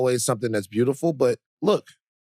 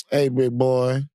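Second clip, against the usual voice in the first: Fat Van voice. Retold or imitated. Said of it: "that's how Fat Van sounds".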